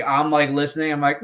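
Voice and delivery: ordinary delivery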